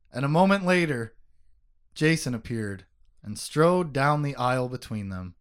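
reading the book aloud; steady audiobook narration; story narration. Acted. Reads passage from the book.

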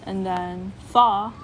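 fa said with both lips, slow and breathy; bilabial fa demo. Shown as a demonstration. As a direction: blow fa between both lips. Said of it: "If you have bilabial".

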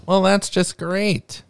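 put-on high-pitched northern English accent. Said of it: "trying to do a northern accent".

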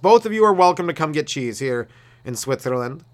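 a cheery, bad Swiss accent selling neutrality. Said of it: "Is that the Switzerland accent?".

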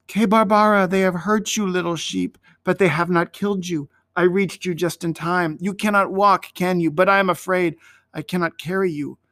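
gentle words to a hurt lamb; boy comforting his lamb; caressing. Acted. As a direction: soothe the wounded sheep. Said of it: "with caressing words to the sheep".

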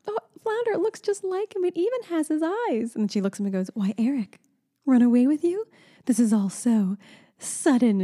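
lightly playing the mermaid in love; lightly voiced Ariel. Mother quoting Ariel's movie line, lightly voiced dreamy princess. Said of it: "the line in the movie when Flounder surprises her".

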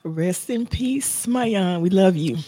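slow hushed farewell; barely above a breath, slowly; soft and slow. Real, not acted. Tribute after moment of silence.

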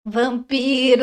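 slow drawn-out vampiro, breaking into laughter; Bella as Araci. Pretend. Doing Bella in the Top Term woman's voice, slow and giggling. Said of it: "imita a Bella. Fazendo Araci".

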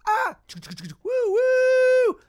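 very high, loud celebratory woo-woo; joyful whoop. Retold or imitated. Actor reliving getting the Taco Bell gig, loud high whoops. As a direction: whoop like you just got the big break.

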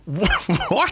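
stammered, high baffled question; mock disbelief. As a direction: splutter it like a baffled viewer. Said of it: "And you're like".

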